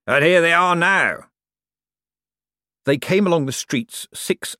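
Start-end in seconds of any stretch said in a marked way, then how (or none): 0.0-1.3 high, loud, drawn-out delight; gleeful ghostly professor, slow and high; cheerful. A narrator's reading. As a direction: sing out the arrival gleefully. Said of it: "said Fleed cheerfully".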